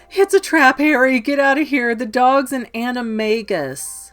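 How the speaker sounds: high, loud urgent cry; urgent warning. Retold or imitated. Hurt Ron warning Harry to flee, loud and urgent. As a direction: yell a desperate warning.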